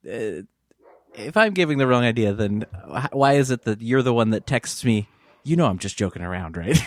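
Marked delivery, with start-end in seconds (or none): 5.4-6.8 hesitant, unsure reading; mock nervous text reading; nervous halting tone. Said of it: "nervous, halting tone".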